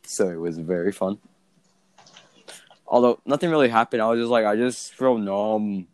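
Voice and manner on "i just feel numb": slow dazed drone after wisdom teeth; high and numb. Retold or imitated. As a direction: drawl it out, numb and spaced. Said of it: "I just sounded very, very weird".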